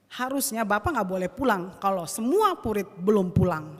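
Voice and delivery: loud, re-enacted reprimand; emphatic retold anger; angry scolding. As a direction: scold the coach, retelling it forcefully. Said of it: "saya marah sekali".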